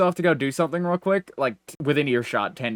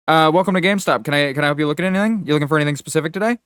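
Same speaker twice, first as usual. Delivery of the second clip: rapid-fire retail welcome patter; eager clerk greeting; 3 dB louder, faster than usual. Retold or imitated. GameStop clerk pounces on a customer walking in, rapid-fire greeting. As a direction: imitate a clerk's rushed, slightly raised sales greeting.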